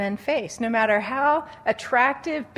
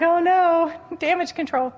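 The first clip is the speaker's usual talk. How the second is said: higher, louder comic alarm; mock panic; 7 semitones higher, 4 dB louder than usual. Speaker jokes the church needs damage control, mock panic. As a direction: sound the alarm, half joking. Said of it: "it's like".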